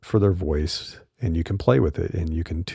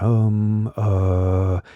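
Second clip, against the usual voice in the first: drawn-out hesitant fillers, some pitched up; filler-word hesitation; 2 semitones higher, much slower than usual. Shown as a demonstration. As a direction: imitate a speaker stalling on verbal tics. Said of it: "those verbal tics and filler words".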